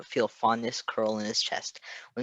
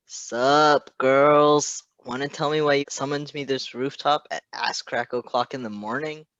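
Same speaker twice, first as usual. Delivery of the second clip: loud, higher, sassy drawl; brash arrival, louder and higher; sassy Remy; 4 semitones higher, 8 dB louder than usual. Acted. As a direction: swagger in calling the girls out. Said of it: "a voice asked".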